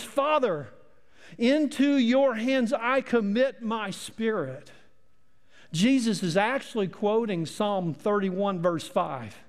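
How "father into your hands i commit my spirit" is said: raised, higher-pitched cry to Father; slow, measured calling out in prayer. Acted. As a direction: call it out high and deliberately for all to hear. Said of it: "He called out in a loud voice".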